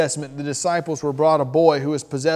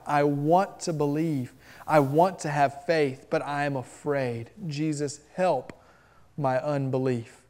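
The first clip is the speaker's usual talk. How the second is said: softly voiced plea of a desperate father; a hushed, restrained cry for help; pleading cry, understated; 2 semitones lower, 6 dB quieter than usual. Father cries out to Jesus for help, a hushed plea. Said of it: "a father who cries out".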